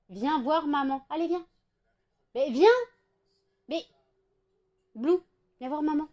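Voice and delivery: coaxing pet call. Real, not acted. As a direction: coax the pet over, repeating patiently.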